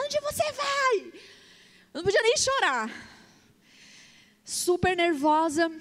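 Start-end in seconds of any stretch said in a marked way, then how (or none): 0.0-1.1 high, slow mock yell of an angry man; an angry biker shouting after her as she walks away; retold angry shout. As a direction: throw the question after her like an angry stranger would. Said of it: "o cara gritando".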